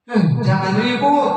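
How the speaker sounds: high-pitched mock scolding yell; punisher's shout. Teacher to noisy child when they do wrong, mock shout. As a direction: call out a sharp telling-off, acted.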